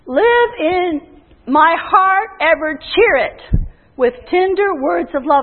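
slow, measured quote of the Lord; the Lord speaking. Retold or imitated. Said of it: "the Lord spoke to me".

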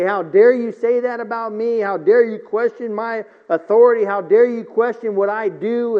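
a lightly voiced indignant king; mock-outraged at being questioned; proud, arrogant king. Preacher voicing a proud king scolding the prophet, mild indignation. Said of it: "proud and arrogant and say".

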